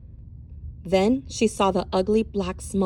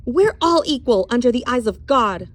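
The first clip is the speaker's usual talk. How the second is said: louder, resolute statement; firm declaration; 3 semitones higher, 4 dB louder than usual. Acted. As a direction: stand your ground. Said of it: "she declared".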